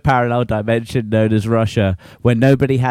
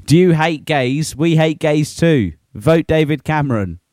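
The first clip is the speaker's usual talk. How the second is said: mock campaign slogan; 5 semitones higher than usual. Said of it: "hate-filled messages to, like".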